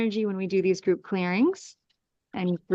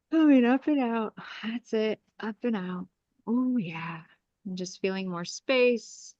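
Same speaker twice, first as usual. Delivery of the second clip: guided clearing. Acted. Healer guiding the group through an energy clearing, calm meditation voice. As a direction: ease the group through each breath and command.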